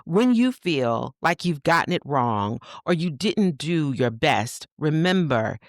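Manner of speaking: slow, gentle reading of an affirmation. Acted. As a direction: read it like a soothing letter to a mother. Rereads affirmation.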